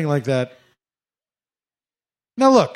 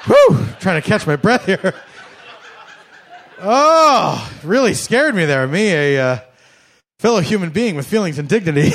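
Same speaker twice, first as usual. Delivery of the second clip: mock frightened. Exaggerated mock fright to owner.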